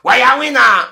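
mild mock lament of the rival; mocking whiner. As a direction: mimic a braggart whining. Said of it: "he say he dey work every day".

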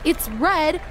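slow, sing-song mock of a silly fan; mocking dumb remark. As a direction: drag it out like a dumb joke. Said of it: "if one more person says something dumb like".

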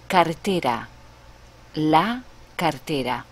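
cartera with a tapped Spanish r; la cartera said natively; Spanish pronunciation. Shown as a demonstration. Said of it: "For example".

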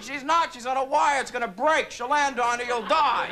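jeering heckler voice; jerk in the back. Retold or imitated. A heckler taunting the kid, jeering. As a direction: poke at the kid like a bully. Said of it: "that one jerk in the back".

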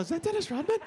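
awed double take; amazed whisper-ish question. Retold or imitated. Both amazed at celebrity.

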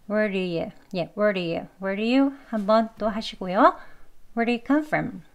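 "where do you" linked with a tapped d; reduced, joined-up "where do you"; quick weak form. Shown as a demonstration. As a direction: run "where do you" lightly into "come from". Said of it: "빠르게 약하게 발음하는 게".

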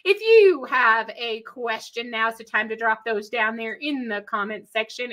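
Texan twang while addressing the audience; Texas accent. Real, not acted. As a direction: let the Texas accent slip out. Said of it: "try to turn off my Texas accent".

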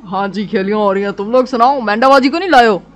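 a put-on easygoing brother voice; lightly voiced brother. Brother in hospital bed greets visiting family, lightly voiced.

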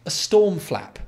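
high, disbelieving repeat; mocking disbelief; incredulous. Real, not acted.

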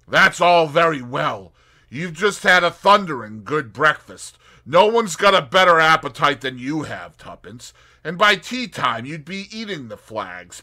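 lightly voiced wry young man; Tommy, amused and sceptical. Tommy teasing Tuppence about her appetite, wry young man. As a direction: tease her, then doubt the idea.

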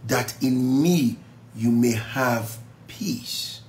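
slow, gentle scripture reading; slow solemn reading. Acted. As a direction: let each phrase settle.

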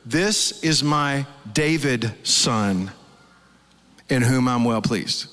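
slow, weighty divine declaration; solemn slow quote. Shown as a demonstration. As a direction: pronounce it slowly like a voice from heaven. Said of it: "what the Father actually spoke is this".

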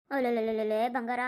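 slow, rolling la-la coo; grandmotherly coo, tongue rolling; cooing baby talk. Acted. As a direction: soothe a crying baby with drawn-out endearments. Grandmother soothes crying baby.

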